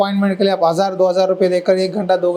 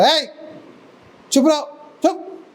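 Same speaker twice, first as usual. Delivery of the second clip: high-pitched hushing, no real volume; imitated scolding shout; 7 semitones higher than usual. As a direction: act out a crowd shooing someone away. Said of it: "बोल के चिल्लाया". (डांटकर चुप कराने की नकल)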